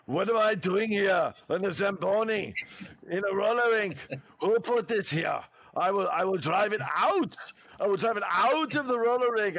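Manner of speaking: mock Arnold on a Zamboni; Arnold impression. Shown as a demonstration. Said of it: "So that's just my demonstration".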